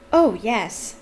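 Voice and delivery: whispered fake agreement; breathy polite lie; whispering. A narrator's reading. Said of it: "they lied".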